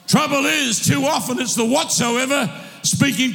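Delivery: rousing sermon delivery, calls ringing out; fired-up preacher calling his church to rise; full-force preaching. Acted. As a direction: drive it home to the congregation. Preacher exhorting congregation.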